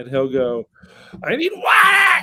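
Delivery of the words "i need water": put-on very high-pitched, shrill, screeching kid voice. Retelling how he asks for water, imitating him screeching. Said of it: "he like screeches it".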